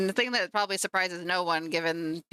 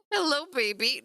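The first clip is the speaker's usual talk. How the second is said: higher, doting hello to a pet; 5 semitones higher than usual. Real, not acted. Greeting her cat on camera, doting baby talk.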